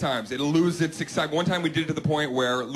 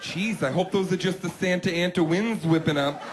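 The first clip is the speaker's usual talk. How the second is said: high overacted startled voice; hammy fake scare; 4 semitones higher, slower than usual. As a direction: play scared badly on purpose. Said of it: "she's toying around with me".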